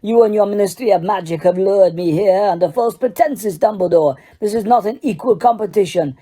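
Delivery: a heated, hammered-out tirade; furious accusation. Acted. Karkaroff accusing Dumbledore of a plot, heated tirade. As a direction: rant at him, building scorn.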